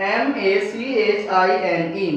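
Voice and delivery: slow letter-by-letter spelling of M A C H I N E. Shown as a demonstration. Teacher spelling the word for students, slow. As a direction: spell it slowly, each letter apart. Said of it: "next word है".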